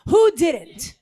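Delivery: high, loud sudden surprise; excited. Real, not acted. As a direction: jump in with a surprised question. Host surprised by audience answer.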